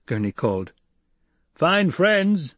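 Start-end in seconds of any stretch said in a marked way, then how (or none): 1.5-2.5 higher, louder bitter retort; shouted back. Acted. Fighter yelling back at Gurney, bitter. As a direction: fling it back across the rocks. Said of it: "someone shouted back".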